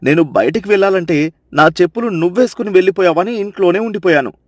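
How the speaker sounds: low, fast scolding husband. Acted. Chandranna scolding silly Sita before the crowd, low scolding. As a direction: tell her off for her foolishness. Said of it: "నాలుగు చివాట్లు పెడతాడు".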